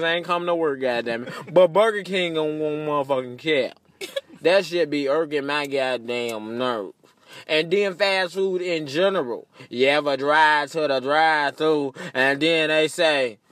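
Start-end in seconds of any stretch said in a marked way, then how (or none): none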